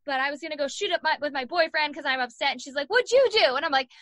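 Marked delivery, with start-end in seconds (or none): 2.9-3.6 much higher, louder imitated cellmate; imitating cellmate. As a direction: mimic the detoxing cellmate asking. Voicing cellmate's question.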